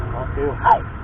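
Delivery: a laughing falsetto repeat; high squeaky voice. Real, not acted.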